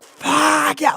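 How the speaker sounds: mock unhinged shriek; hysterical scream. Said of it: "the kind that's tearing at their own esophagus".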